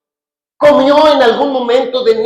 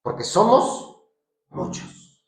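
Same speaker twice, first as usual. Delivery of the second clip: low, slower, fading to a breath; demon answers; 4 semitones lower, 4 dB quieter, slower than usual. Acted. The demon answering Jesus, low and slow fading out. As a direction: give the demon's name low and dark. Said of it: "Le respondió diciendo".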